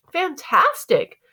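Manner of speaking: high, slow, gushing echo; emotional praise. A narrator's reading. Mom so emotional, repeating Dad's praise, gushing. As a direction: draw the word out, overcome. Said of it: "so emotional, she could barely talk".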